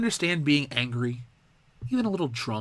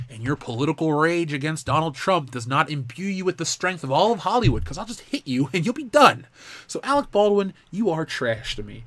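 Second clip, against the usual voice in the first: angry rant; 2 semitones higher, 3 dB louder than usual. Real, not acted. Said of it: "I've gone off on that little rant".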